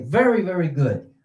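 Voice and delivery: warm teacher praise; encouraging praise. Shown as a demonstration. Evaluator praising a student's stressed syllable, encouraging. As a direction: reassure the student gently. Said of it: "and say".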